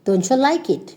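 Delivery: "Don't you" slurred into doncha; ch sound joining "Don't you"; shortened form. Shown as a demonstration. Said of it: "will become".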